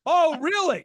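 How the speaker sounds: high, loud feigned acceptance; mock surprise. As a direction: play up the stunned reaction for laughs. Acts reaction to guest moving in.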